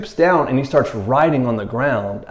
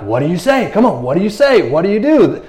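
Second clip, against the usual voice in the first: insistent asking; 4 semitones higher than usual. Retold or imitated. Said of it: "they continued asking him".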